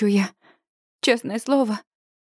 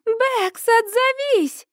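much higher call of a name; 11 semitones higher, much slower than usual. A narrator's reading. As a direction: shout the name across the rocks. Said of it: "кричит она".

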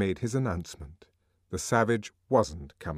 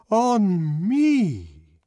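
indignant songster; 11 semitones higher, 9 dB louder than usual. Acted. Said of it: "the arch songster kept repeating".

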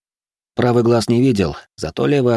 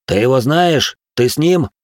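sharp interrogation; 5 semitones higher, 4 dB louder than usual. Acted. Kselim questions Zora sharply.

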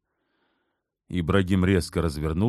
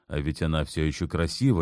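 plain reading voice

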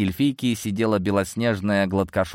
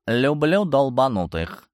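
purring; 5 semitones higher, slower than usual. Acted. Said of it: "промурлыкал Семён".

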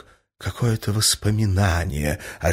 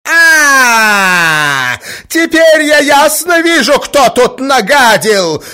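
very high, loud enraged cry; enraged mother turning on Mozglyakov; furious shout; 13 dB louder, much slower than usual. A narrator's reading. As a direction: explode at him beside yourself with rage. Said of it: "закричала Марья Александровна вне себя от бешенства".

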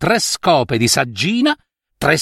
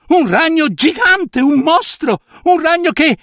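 agitazione; 12 semitones higher than usual. Acted. Nutria agitata racconta il ragno.

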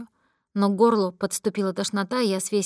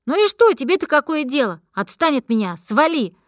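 put-on loud, high drunken outburst; angry yelling; 6 semitones higher, 7 dB louder than usual. Drunk girl screams at her friend to leave her, angry yell. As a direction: spit it at him, higher and louder.

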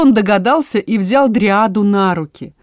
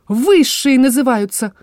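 put-on old voice scoff; 5 semitones higher than usual. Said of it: "хмыкнула она совсем не юным голосом".

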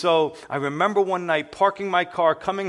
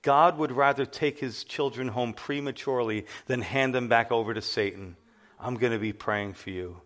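loving but firm; 2 semitones lower than usual. Retold or imitated. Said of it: "in a loving but firm way".

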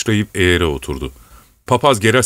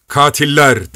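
raised, heart-rending accusation; higher-pitched acted outcry; anguished cry; 5 semitones higher, 4 dB louder, slower than usual. A narrator's reading. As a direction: cry out as a horrified widow, restrained in volume. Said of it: "diye haykırdı".

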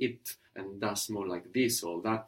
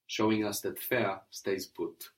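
ordinary talk, nothing marked

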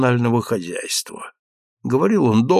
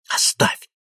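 a breathless plea, unvoiced; urgent whisper. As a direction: hiss it to hold him back. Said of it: "дёрнул меня граф за рукав". (граф шепчет умоляюще)

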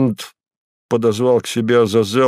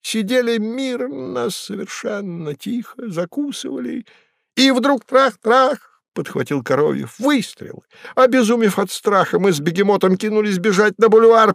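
much higher, reedy storyteller voice; Koroviev's voice; 12 semitones higher than usual. A narrator's reading. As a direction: rattle the tale off in a high voice. Koroviev's high voice telling.

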